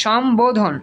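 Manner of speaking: সম্বোধন with a clear b; correct pronunciation. Shown as a demonstration. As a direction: say সম্বোধন as shom, then bo-dhon. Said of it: "এই জায়গায় উচ্চারণটা করো".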